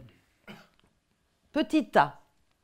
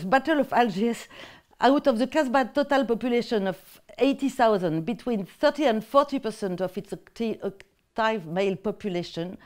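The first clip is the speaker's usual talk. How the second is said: French-accented English. Real, not acted. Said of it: "montrer mon accent anglais".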